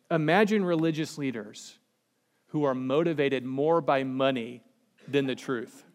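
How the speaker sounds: dry, barely straight-faced; deadpan irony. Acted. Preacher ribbing church leaders, dry deadpan irony. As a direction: hold back the laugh as you say it. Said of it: "I can't even say that with a straight face".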